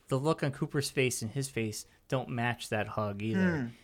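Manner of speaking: hushed whisper. Real, not acted. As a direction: whisper it low. Whispered aside about faces.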